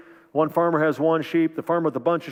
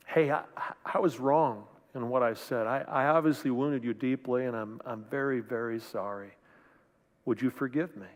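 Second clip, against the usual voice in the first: much softer, lower, heartfelt; sincere apology; 4 semitones lower, 6 dB quieter than usual. Retold or imitated. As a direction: say sorry and mean it, quietly. Sincere apology voiced as example.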